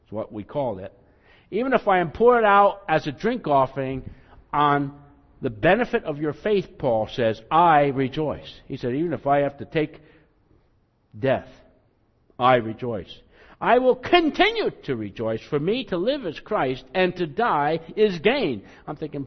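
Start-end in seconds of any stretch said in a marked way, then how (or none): 1.5-8.6 loud fervent declaration; proclaiming loudly. Pretend. Preacher voicing Paul facing death, loud fervent proclaiming. 8.9-18.6 fervent proclaiming. Pretend. Preacher voicing Paul ready to die, fervent loud proclaiming.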